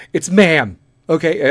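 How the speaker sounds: loud, firm it's ma'am; a mock firm correction; insisting woman. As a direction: insist on being called ma'am. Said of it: "my voice dropped for the lady".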